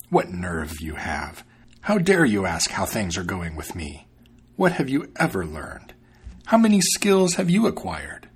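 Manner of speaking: proud fox scorning the cat; arrogant fox. Acted. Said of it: "Finally he said".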